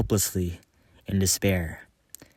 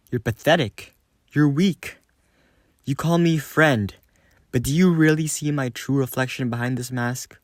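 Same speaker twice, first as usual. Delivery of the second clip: venomous contempt; 5 semitones higher than usual. Acted. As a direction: spit contempt at him.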